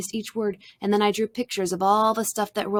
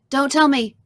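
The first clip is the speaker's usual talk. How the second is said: higher, louder cut-in; eager interruption; 5 semitones higher, 6 dB louder than usual. A narrator's reading. Sarah interrupting James about her new book, eager interruption.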